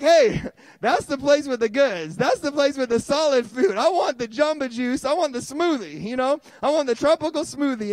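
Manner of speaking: put-on high, eager childlike wanting; toddler's thoughts voiced. Toddler spotting Jamba Juice, high and eager. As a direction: beg for it like a toddler. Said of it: "'Cause she knew".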